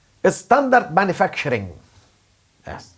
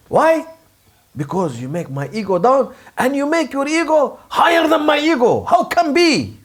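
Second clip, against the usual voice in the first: angry; 6 semitones higher than usual. Acted. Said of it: "my ego is really angry".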